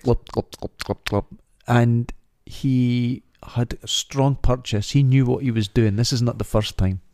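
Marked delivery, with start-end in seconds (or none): 0.0-1.2 imitated lapping glugs; quick, repeated gulping glops; glopping drinking noise. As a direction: glop it out like heavy drinking. Imitates cat drinking from toilet.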